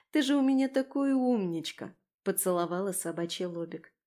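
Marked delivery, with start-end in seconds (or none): 0.1-1.9 higher, doting coo to a pet; fond baby-talk lilt; cooing praise. Acted. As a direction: coo lovingly at your little dog. Cooing praise to her little dog.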